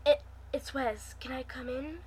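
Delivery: softly. Acted. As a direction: ask quietly, not to startle her. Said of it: "I asked softly".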